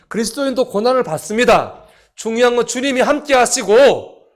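loud, high rallying proclamation; full-force preaching. Real, not acted. Preacher assuring believers the Lord is with them, full-force preaching. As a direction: ring it out to the whole congregation.

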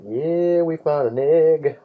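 gleeful little monster finding an egg; voicing the monsters. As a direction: shaggies gloating over a stolen egg, high and eager. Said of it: "those shaggies are like".

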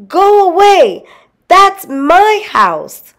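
loud, high cry of protest; indignant shouting. A narrator's reading. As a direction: yell at intruders from overhead. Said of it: "called the tiny Mister Gregg".

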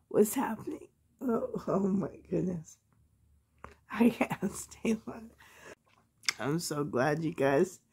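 soft whisper, near silent. Real, not acted. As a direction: hush so as not to disturb.

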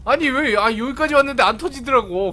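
usual speaking voice

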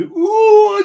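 very high, loud crowd hoot. Acted. Pirate crew goading the arguing captain, loud high hoot. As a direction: hoot it out like a whole rowdy crew. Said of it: "even louder this time".

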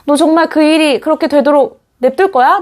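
usual speaking voice

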